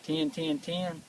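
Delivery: teal call imitation. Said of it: "They go, like".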